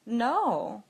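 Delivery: retold calm, innocent no; composed one-word denial. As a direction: deny it simply and coolly. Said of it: "just very calmly said".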